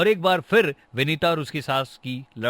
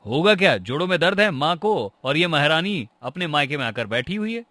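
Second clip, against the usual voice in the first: indignant complaint; 3 semitones higher, 5 dB louder than usual. Acted. Son-in-law blames his wife for his mother's pain, indignant. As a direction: snap back, mildly heated.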